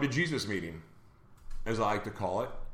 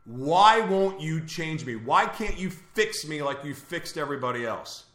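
retold scream at God; 3 semitones higher than usual. Retelling a plea to God from isolation, mild mock scream. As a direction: plead upward without really shouting. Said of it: "I'm start screaming at God".

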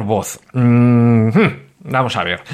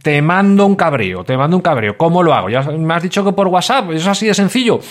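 higher, eager mock listener voice; hammed-up questioning listener, pitched higher; imitating listeners; 4 semitones higher than usual. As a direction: play a won-over listener asking how. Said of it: "y diréis todos".

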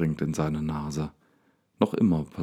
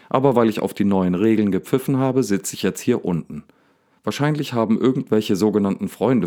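angry again. Acted. Daniel rants to the lion about his enemies, angry. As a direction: let the anger boil back up. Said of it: "kommt die Wut wieder in ihm hoch".

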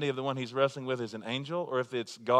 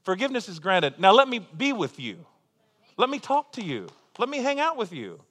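a lightly voiced, fond Lord; the Lord speaking; 4 semitones higher, 6 dB louder than usual. The Lord telling a forgiven sinner he wants to be with them. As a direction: speak as God longing to spend time with you. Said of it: "the Lord wants to say".

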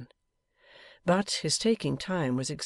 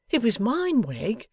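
high protest; 9 semitones higher, 5 dB louder, slower than usual. A narrator's reading. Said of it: "protested Mister Boffin".

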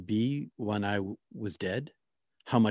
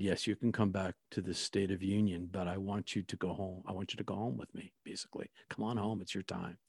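hushed and gentle, much softer; soft divine voice; 7 dB quieter than usual. Retold or imitated. Divine voice calling her home, softly and hushed.

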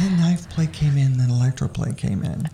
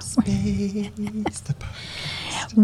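slow, drawn-out show-title call; dramatic announcer; 6 semitones higher, 5 dB quieter, much slower than usual. Pretend. Echoing the podcast's name as announcer.

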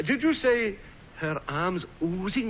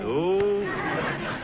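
laughing oh indeed, pleased with himself; flattered chuckle; 3 semitones higher than usual. Acted. Uncle flattered by his niece, chuckling.

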